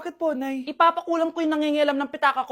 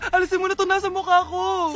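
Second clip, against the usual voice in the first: pleading shout; 4 dB louder than usual. Acted. Begging mother to remove curse.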